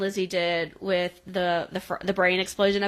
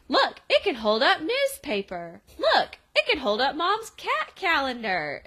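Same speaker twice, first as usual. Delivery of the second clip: put-on excited kid; 6 semitones higher than usual. Voicing excited kid showing off.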